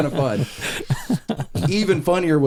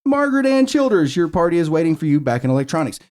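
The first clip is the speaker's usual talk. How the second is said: high name call, then quicker announcement; repeated intercom page; 3 semitones higher than usual. Retold or imitated. Grandchild paging great-aunt over the store horn, intercom page. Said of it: "I get on the horn".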